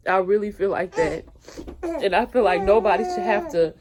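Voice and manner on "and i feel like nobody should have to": fighting tears while she keeps talking; crying. Real, not acted. Mother tearing up mid-sentence.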